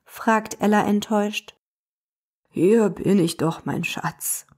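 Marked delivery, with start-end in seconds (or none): 2.5-4.4 lower, tender grandfather voice; grandpa greeting. Acted. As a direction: greet your granddaughter lovingly. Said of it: "begrüßt sie Opa Volker". (Opa Volker begrüßt zärtlich seine Enkelin)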